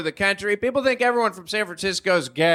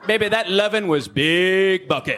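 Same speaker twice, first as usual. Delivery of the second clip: lover's praise; 3 dB louder than usual. Pretend. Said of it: "you say".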